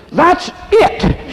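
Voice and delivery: sharp, high retort; the wife has had enough; fed-up outburst. Retold or imitated. Wife thrown from bed snaps, fed-up outburst.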